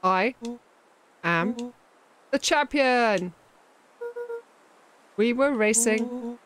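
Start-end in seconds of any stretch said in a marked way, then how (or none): 0.0-3.3 triumphant boast. Acted. Boasting after winning a race.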